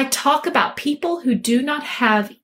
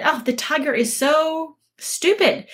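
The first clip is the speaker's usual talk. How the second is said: higher-pitched tattling to the king; complaining donkey; 4 semitones higher than usual. Acted. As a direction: grumble about your rival, stretching SO.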